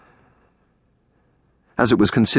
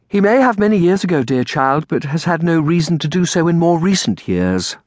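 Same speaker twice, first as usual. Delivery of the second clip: higher, composed aunt voice; patient Aunt Felicia; 9 semitones higher than usual. Acted. Aunt explains unknown cousin to dear child, patient.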